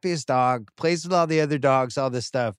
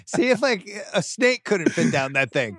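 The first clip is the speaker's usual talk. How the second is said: mock insulting; 4 semitones higher than usual. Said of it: "We're just, like, insulting each other".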